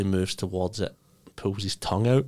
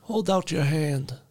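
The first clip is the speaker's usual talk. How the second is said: a pompous crime boss gloating to his crew; Tooth Fairy mob boss; 6 semitones higher than usual. Acted.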